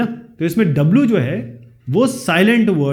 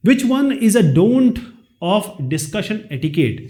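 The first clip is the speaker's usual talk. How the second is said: slow, careful reading of the quiz sentence; slow question reading; 2 semitones higher, much slower than usual. Shown as a demonstration. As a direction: read each word out slowly for the class. Reads question slowly. (धीरे-धीरे प्रश्न पढ़ना)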